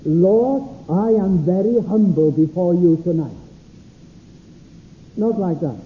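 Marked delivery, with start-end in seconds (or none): 0.0-3.4 mock pious prayer. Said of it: "Not saying".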